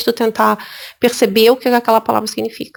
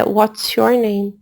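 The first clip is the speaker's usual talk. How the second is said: "What's your name?" said slowly and evenly as the model; slow, measured "What's your name?", settling down at the end; deliberate correct example; 3 semitones lower, much slower than usual. Shown as a demonstration. Teacher giving the correct question, "What's your name?" slow and measured. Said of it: "o que é perguntado é".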